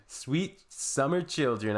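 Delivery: drawn-out condescending pity; mock pity. Real, not acted. Reacting to clueless commenters, slow mock pity. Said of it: "mock pity at naive posters".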